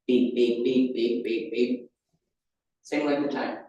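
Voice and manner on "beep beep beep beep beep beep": quick beeping imitation. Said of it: "now it's going".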